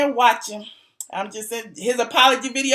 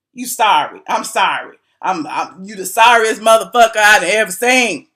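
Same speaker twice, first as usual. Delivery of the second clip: lightly lowered, menacing imitation of a singer; a hint of a growling singer; 4 semitones lower than usual. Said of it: "in my singer voice".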